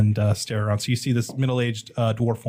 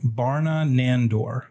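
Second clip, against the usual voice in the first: slow; much slower than usual. Shown as a demonstration. Asked to repeat the name.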